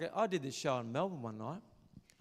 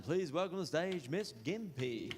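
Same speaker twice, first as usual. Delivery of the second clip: mock pageant host; 4 semitones higher, 5 dB louder than usual. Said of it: "It's like saying".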